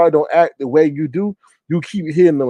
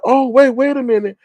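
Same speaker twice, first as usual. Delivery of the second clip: higher-pitched retold double-take; imitating urgent interruption; 10 semitones higher than usual. Host repeating how he said it, mock urgent interruption. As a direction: mimic someone halting everything. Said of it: "in the way he said it".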